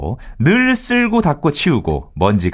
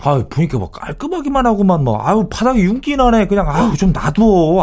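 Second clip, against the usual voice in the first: high-pitched, whiny protest; acted exasperated husband; 6 semitones higher than usual. Husband begging wife to leave it, exasperated whine. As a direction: groan back at a nagging spouse. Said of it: "저랑 중학생 아들이랑 아주 그냥 들들들들 볶이죠".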